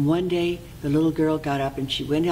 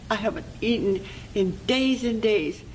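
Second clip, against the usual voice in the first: put-on pitiful little girl; 6 semitones higher than usual. Hungry girl goes on.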